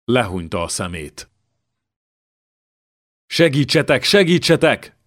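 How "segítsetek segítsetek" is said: higher, louder terrified cry; king crying out as a lance comes; screaming for help. Acted. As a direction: shriek for rescue.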